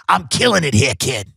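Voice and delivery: lightly voiced older saleswoman; Ida. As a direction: imitate an older woman bragging to a newcomer. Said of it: "That's how she talks".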